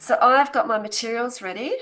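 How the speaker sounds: shivering with cold; teeth chattering. Real, not acted. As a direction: talk through chattering teeth. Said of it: "I'm so cold that my hands are actually shaking".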